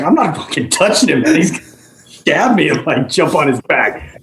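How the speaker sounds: scared, refusing; nervous refusal. Retold or imitated. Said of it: "I was like".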